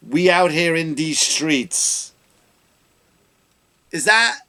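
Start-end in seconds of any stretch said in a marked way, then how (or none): 0.1-2.1 slow, a bit higher mock street talk; hammed-up mockery of her slang; lightly voiced mock slang. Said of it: "how you think that all black people talk".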